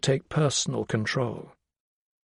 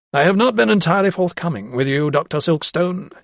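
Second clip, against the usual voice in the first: higher-pitched, solemn confession; solemn gentleman; 5 semitones higher than usual. Acted. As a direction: confess it formally, as a weighty matter. Voices Sir Joseph confessing.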